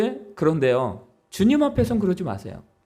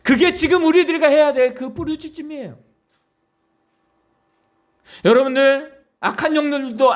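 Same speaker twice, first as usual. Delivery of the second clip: usual speaking voice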